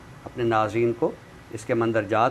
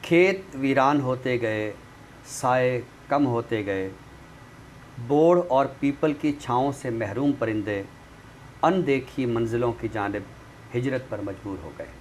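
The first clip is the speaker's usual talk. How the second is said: poem recitation. Acted. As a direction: recite each image with weight and pauses. Recites a nazm on the show.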